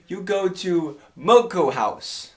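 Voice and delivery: put-on deliberate, lightly Chinese-accented; imitated Chinese owner. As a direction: give directions slowly with a light Chinese accent. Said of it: "She goes".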